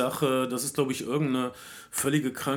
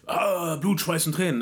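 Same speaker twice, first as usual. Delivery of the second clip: imitating a rousing speech, higher pitch; emphatic rallying cry; 4 semitones higher, 3 dB louder than usual. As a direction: declaim it as the version he did not give. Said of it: "Er sagt den Leuten nicht".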